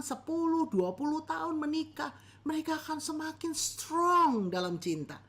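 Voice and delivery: lightly voiced sugary preacher; a hint of an overpromising sermon, rising at the end; mock earnest preacher; preacher impression. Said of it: "ada pengkhotbah yang bilang begini".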